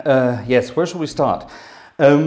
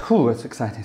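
breathless from the heat; puffing between words; out of breath. Real, not acted. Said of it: "Sorry, I'm a bit out of breath".

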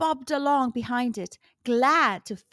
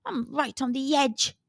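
mild grumble. Acted. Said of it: "grumbled Gasper".

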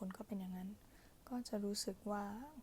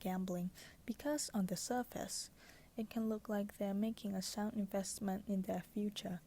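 pillow talk; much slower than usual. Acted. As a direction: read it like a bedtime whisper. Reads book passage softly.

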